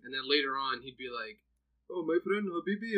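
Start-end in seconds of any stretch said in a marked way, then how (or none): 1.9-2.9 higher-pitched mock Arab accent; imitated Arab accent. Imitating cousin mocking how people talk, higher mock Arab accent. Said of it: "Remember how they're talking?".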